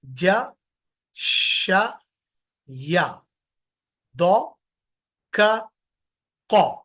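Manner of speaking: six letters said one by one, clearly apart; revising the six letters for the class; slow letter recital. Shown as a demonstration. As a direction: recite each letter slowly and separately. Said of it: "एक बार फिर से बोल रहा हूं".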